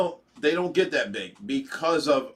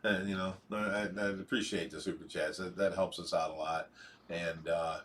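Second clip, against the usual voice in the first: softer, lower, heartfelt thanks; sincere gratitude; 9 semitones lower, 7 dB quieter than usual. Real, not acted. Host thanking a viewer for prayers, sincerely grateful. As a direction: let it drop low and quiet, truly grateful.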